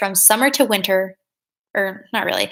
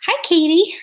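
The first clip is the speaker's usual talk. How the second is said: bright greeting; 8 semitones higher, 5 dB louder than usual. Real, not acted.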